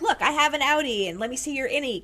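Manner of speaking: lightly hammed-up child's show-and-tell; voicing a curious child. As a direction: pipe up like a kid on the playground. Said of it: "And I was like".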